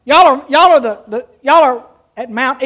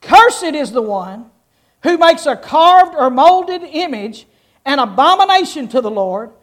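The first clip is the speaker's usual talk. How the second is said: solemn scripture reading. Acted. Reads curses for congregation's response.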